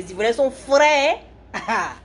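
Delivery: playful Ivorian accent, high rising finish. Shown as a demonstration. Livestreamer showing viewers how Ivorians talk, in an Ivorian accent. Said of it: "Je vais prendre l'accent ivoirien pour parler".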